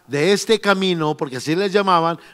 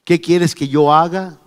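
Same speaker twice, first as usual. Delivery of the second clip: trembling and fearful; 2 semitones lower, slower than usual. Acted. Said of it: "Él temblando y temeroso dijo".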